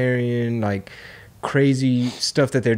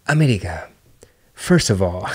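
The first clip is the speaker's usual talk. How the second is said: hushed unvoiced whisper, lower; whispered scolding; 5 semitones lower than usual. Chinese officials rebuking the American delegation, mock whisper.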